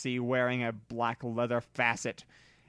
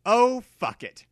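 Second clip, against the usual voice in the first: high loud curse; angry shout; 9 semitones higher, 7 dB louder than usual. A narrator's reading. Vampire hearing of the shooting, angry loud shout. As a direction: bark it out in fury, high. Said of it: "Vampire shouted angrily".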